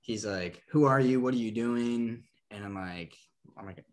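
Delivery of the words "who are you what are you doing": mild mock confrontation, louder on "who"; aggressive. Homeowner confronting the book salesman, a hint of aggression. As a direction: lightly imitate a suspicious homeowner. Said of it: "rather aggressive".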